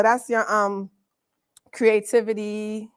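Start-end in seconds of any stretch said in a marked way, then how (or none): 1.7-2.9 breathed out without voice; coy whisper. Real, not acted. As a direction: whisper the touchy words. Listing chakra meanings, coy.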